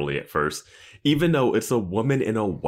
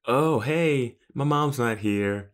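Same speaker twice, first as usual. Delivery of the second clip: put-on higher, singsong oblivious child; clueless kid; 7 semitones higher, slower than usual. Naive kid greets a stranger, in an oblivious higher voice. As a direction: play a kid with no awareness. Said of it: "just no awareness".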